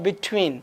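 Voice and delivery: between as the English say it, T stressed; English-style stressed T. Shown as a demonstration. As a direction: lean on the T in between. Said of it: "अंग्रेज ऐसे ही बोलता है जब बोलता है". (अंग्रेज़ों जैसा between, टी पर ज़ोर)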